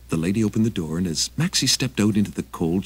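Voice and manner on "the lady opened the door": plain reading voice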